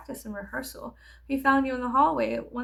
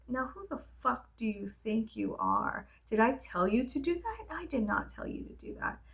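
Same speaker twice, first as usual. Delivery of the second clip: stern scolding teacher; 4 dB quieter than usual. Retold or imitated. Strict teacher cutting down a student's own piece, icy scolding. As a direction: make the student feel small. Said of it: "other times she would be like".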